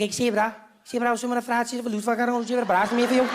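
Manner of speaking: mock Cape Town guy rattling off Afrikaans slang. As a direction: rattle it off like an over-familiar stranger. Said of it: "But they just rattle off".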